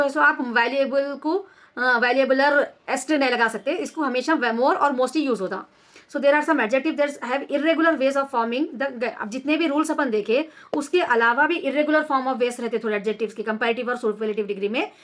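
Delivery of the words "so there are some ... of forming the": slow, deliberate reading of a grammar rule; measured classroom dictation; slow textbook reading. Shown as a demonstration. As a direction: read each word out slowly for the class. Reads textbook rule aloud.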